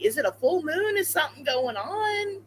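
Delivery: high, baffled questions; puzzled. Retold or imitated. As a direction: wonder aloud, perplexed. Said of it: "I was like".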